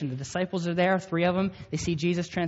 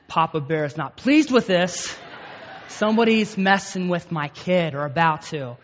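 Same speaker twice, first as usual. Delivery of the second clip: mock Papa Bear; 6 dB louder than usual. Protective dad sees threat.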